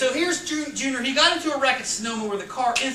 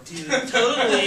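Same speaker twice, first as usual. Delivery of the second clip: put-on valley girl voice; 3 dB louder than usual. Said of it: "so he talks like a valley girl".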